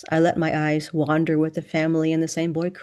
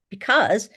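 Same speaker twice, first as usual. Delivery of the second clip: "Because" emphasized and set apart, higher; stress on BECAUSE; 4 semitones higher than usual. A narrator's reading. Student explains the rental request, "Because" emphasized. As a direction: hit "Because" firmly, then pause. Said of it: "she emphasized this".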